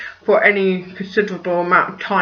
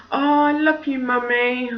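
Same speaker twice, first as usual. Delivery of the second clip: higher, softer imitation of a child; sweet little-kid mimicry; child saying I love you; 4 semitones higher, 4 dB quieter than usual. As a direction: coo it up high like a little kid. Child's affectionate words, imitated.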